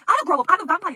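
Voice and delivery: high, loud, flustered protest. Acted. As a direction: blurt it out defensively. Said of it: "Lawless gets all flushed".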